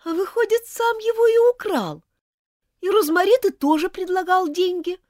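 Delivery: high, loud outraged accusation; angry and contemptuous. Acted. Elizabeth accuses Martin of theft, high and furious. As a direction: hurl it at him, betrayed and furious. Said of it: "с гневом и презрением".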